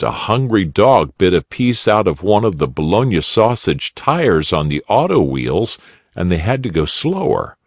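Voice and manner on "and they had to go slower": ordinary delivery, nothing marked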